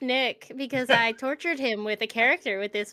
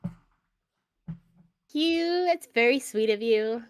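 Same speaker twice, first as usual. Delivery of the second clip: put-on awkward girl voice; 2 semitones lower, slower than usual. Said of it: "awkward girl voice".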